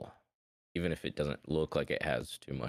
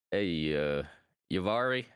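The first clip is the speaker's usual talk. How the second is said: calling out; 2 semitones higher than usual. Acted. Player's character calls to companion about locked door, casual call-out. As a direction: call a companion over, questioning. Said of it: "he would just call out".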